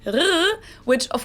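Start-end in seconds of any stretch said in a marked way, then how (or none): 0.1-0.1 throaty German "R"; "R" made at the back of the throat. Shown as a demonstration. Teacher demonstrating to viewers, German "R". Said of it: "Pronounced like this".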